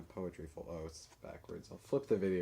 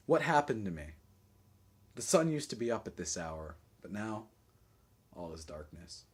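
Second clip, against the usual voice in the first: poetry reading; 7 semitones higher, 10 dB louder than usual. Acted. Poet wakes from a bad dream, dramatic verse reading. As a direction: declaim it, then fade into gloom. Reads own poem aloud.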